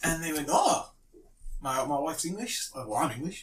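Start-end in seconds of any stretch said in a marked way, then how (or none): 0.5-0.9 put-on South African accent. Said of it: "in a very, very South African accent".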